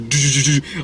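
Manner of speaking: vocalized dramatic sting; quick mouthed horror-movie stinger; imitated music stinger. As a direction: sound out a scare cue. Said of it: "music stinger".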